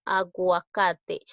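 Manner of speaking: slow "Aguacate", u sounded as a w glide; pronounced U. Shown as a demonstration. Teacher showing students the U is sounded, slow "Aguacate" with audible u. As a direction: stretch "Aguacate" out so the u is heard before the a. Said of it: "sí estoy pronunciando la U".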